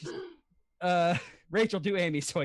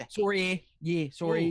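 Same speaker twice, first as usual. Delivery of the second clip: Canadian rounded "sorry"; Canadian accent; 3 semitones lower than usual. Shown as a demonstration. Impressionist refining the Canadian sorry, Canadian accent. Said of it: "a little bit of the H at the end".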